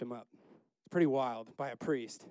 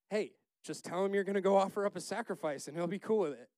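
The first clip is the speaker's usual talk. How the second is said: high, loud, breezy reassurance; mock casual advice; 6 semitones higher, 6 dB louder, faster than usual. Preacher voicing God advising Samuel, mock casual advice. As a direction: toss out the easy fix, high and loud.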